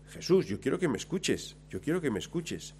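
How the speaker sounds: insistent plea at full speaking voice; forceful plea. Shown as a demonstration. Preacher as blind Bartimeo calling to Jesus, forceful insistent plea. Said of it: "a lo bruto".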